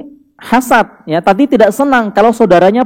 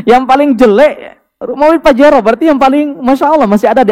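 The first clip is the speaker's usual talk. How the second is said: higher-pitched, laughing echo of a boast; amused disbelief; 6 semitones higher than usual. Real, not acted. Preacher relaying a wife's boast to the congregation, amused and laughing. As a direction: repeat it through real laughter.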